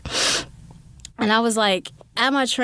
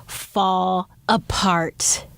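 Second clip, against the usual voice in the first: slow, breathy whisper; much slower than usual. Real, not acted. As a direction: let it crumble, slowly whispered. Whispered dramatic ending.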